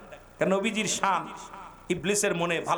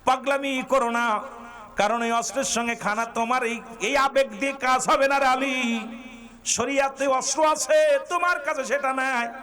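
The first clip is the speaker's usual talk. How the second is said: impassioned preaching; 8 semitones higher, 3 dB louder than usual. Acted. Preacher voicing the Prophet restraining Ali, high and insistent. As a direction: voice a retold admonition at a raised preaching pitch.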